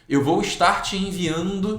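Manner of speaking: mimicking an office worker's email phrasing; mocking office email. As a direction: imitate the corporate gerund habit. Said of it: "fala assim".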